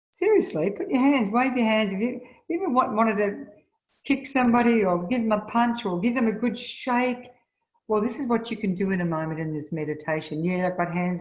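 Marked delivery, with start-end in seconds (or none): 0.1-7.3 rousing the crowd. Real, not acted. Rousing audience to raise hands.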